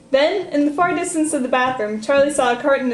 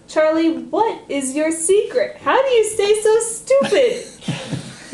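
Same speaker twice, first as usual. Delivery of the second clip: mocking taunt; 6 semitones higher, slower than usual. Sister mocks brother.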